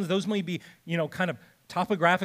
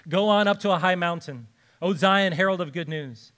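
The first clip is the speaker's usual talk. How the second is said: raised, emphatic scripture declaration; heralding proclamation; 3 dB louder than usual. Acted. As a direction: proclaim it like a herald announcing good news.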